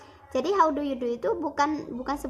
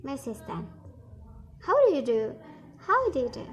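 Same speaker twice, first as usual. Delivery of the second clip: dialogue read aloud. Shown as a demonstration. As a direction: read each role clearly for the class. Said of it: "kita praktekin lagi ya". (membaca dialog bahasa Inggris perlahan)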